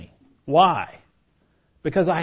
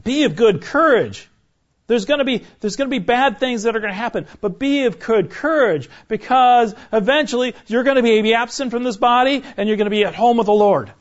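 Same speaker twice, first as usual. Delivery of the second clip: Paul; 6 semitones higher, 4 dB louder than usual. Retold or imitated. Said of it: "Paul's going".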